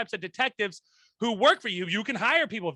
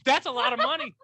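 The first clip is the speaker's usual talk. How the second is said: mock Southern yokel; 6 semitones higher, 3 dB louder than usual. Mock-Southern dazzled reaction.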